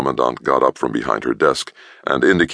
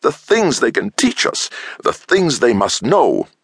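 high, slow, wondering rapture; excited longing; 12 semitones higher, slower than usual. A narrator's reading. Scientist longing for alien knowledge, high and rapt. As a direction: dream aloud of what they know.

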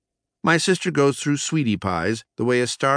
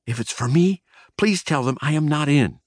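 higher, mildly pleading voice; begging; 6 semitones higher than usual. A narrator's reading. Mouse begs cousin to cover for him, pleading. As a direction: plead with a touch of urgency. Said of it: "I begged".

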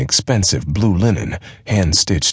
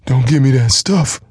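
put-on high, loud childlike giant voice; a big simple man pressing his friend; lumbering giant, pitched up and pushy; giant half-wit; 8 semitones higher, 4 dB louder than usual. A narrator's reading. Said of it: "he said".

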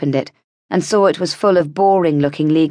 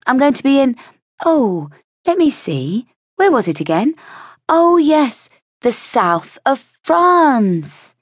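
higher, drawn-out teasing voice, slowing right down at the end; heroine's coy boasting; 9 semitones higher, slower than usual. Acted. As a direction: savour each word as a smug reveal. Heroine teasing about her trip.

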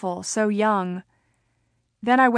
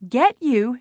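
surprised; 2 semitones higher than usual. A narrator's reading. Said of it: "She sounded surprised".

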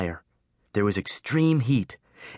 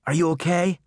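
hoarse, high worried question; raspy; 8 semitones higher, 3 dB louder than usual. A narrator's reading. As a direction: rasp it out from smoke. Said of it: "he rasped".

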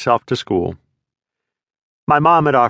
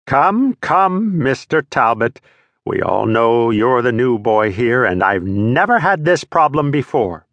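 stern teacher; slower than usual. Acted. Teacher scolding the new boy.

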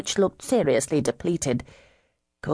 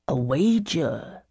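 hopeful; slower than usual. Acted. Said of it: "he added hopefully".

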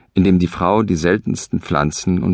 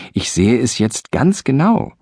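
higher, sure of himself; eager insistence; 6 semitones higher than usual. Acted. Husband peering at the bird, higher and insistent. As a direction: insist with a squint.

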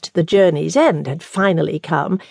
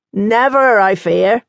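nun voice; 3 semitones higher, 3 dB louder, slower than usual. Acted. Nun's gentle retort.

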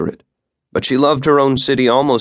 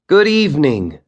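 raised voice for the crowd; loud; 7 semitones higher, 3 dB louder than usual. A narrator's reading. Guide greets her group of fifteen in a raised voice. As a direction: project to the whole group. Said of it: "she said loudly".

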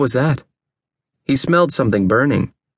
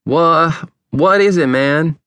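startled, frantic waking; 5 semitones higher, slower than usual. A narrator's reading. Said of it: "breathing heavily and looking frantically around".

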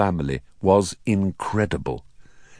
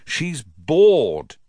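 raised, pleading explanation; explaining; 5 semitones higher, 5 dB louder than usual. A narrator's reading. Nephew defending his owl to his uncle, explaining. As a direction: explain it in protest. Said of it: "to explain".

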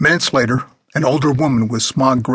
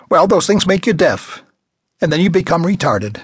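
high, loud scornful retort; scornful old woman; 6 semitones higher, 3 dB louder than usual. A narrator's reading. Old woman snapping back at the man beside Darwin, high and loud. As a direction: brush him off with contempt.

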